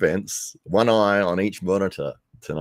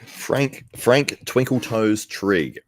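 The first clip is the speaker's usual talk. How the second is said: amused announcing; 6 semitones higher, 3 dB louder, much slower than usual. Real, not acted.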